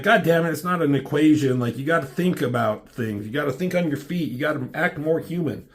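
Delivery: pissed-off captain. Retold or imitated.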